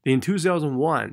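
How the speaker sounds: "In two thousand one" as its own group, then pause; phrase before a break. Shown as a demonstration. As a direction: lift "two" and stop briefly after "one". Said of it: "这边后面可以停一下下".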